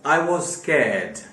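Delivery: each word laid out slowly for learners; slow teacher's example sentence; slow dictation. Shown as a demonstration. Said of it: "उसी हिसाब से आप".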